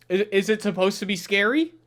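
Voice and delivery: ordinary talk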